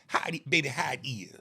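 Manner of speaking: lightly voiced woman asking her man; a hint of her drawn-from-life dialect; imitating Southern woman. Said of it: "she'll say to her, her man".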